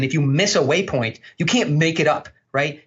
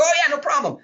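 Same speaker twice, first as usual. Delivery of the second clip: high, breezy okay; easygoing retold answer, pitched high; mock-agreeable reply; 11 semitones higher, faster than usual. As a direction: play along obligingly, voice pitched up. Acted agreeable reply to fan.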